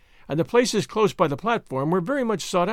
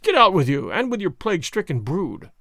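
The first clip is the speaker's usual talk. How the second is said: hoarse shout. Acted. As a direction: bark him away hoarsely. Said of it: "shouted Bibeau hoarsely".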